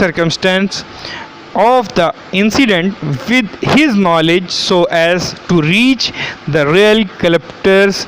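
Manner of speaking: slow, deliberate reading of legal text; statute read-out. Acted. Lecturer reading the law to students, slow read-out. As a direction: read it out slowly, word by word.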